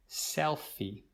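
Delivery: Selfie said alone, SEL stressed; model word. Shown as a demonstration. Teacher presenting new word to students, clear. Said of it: "This is called a selfie".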